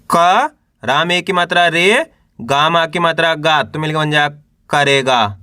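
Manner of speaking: teacher's spelling drill, held rising syllables; syllable-by-syllable sounding out. Shown as a demonstration. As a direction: sound out each letter for beginners to repeat. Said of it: "एक अक्षर का उच्चारण करके इनको पढ़ रहा हूँ".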